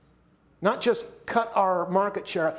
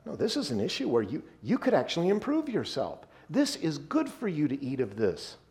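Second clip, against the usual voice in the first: soft coaxing; 2 semitones lower, 3 dB quieter than usual. Acted. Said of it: "So he says".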